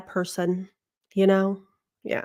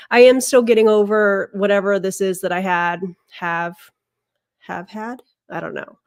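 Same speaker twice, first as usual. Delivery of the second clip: stuffy nose, congested; nasal voice; 4 dB louder than usual. Real, not acted. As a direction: talk through a blocked nose. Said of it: "So I sound a little nasally".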